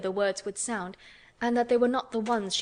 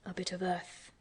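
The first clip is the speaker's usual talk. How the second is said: softer, murmured to himself; 7 dB quieter than usual. A narrator's reading. Guardian murmurs the words to himself, softly. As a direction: muse quietly, half-remembering. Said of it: "he said to himself".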